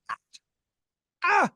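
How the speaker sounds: imitating pastor's emphatic ah. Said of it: "when the pastor says something he really means, he says".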